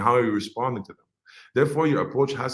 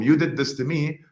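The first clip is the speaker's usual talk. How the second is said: higher-pitched, mildly accusing; angry customer; 5 semitones higher, 4 dB louder than usual. Acted. Unhappy customer blaming the company, mildly angry. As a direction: act out a customer's complaint with some heat. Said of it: "make that angry customer or angry consumer happy".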